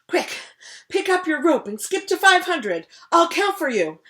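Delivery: loud, high, commanding king; pushy royal taskmaster; bossy king. Acted. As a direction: bark orders like a drill coach. King pushing crocodile to exercise.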